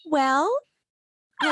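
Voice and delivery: high, put-on happy dwarf voice. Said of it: "I had to put on my happy voice".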